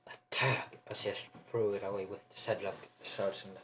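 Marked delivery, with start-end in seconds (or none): 0.1-0.8 higher, punched battle cry; attack call. Acted. Acted spell attack call.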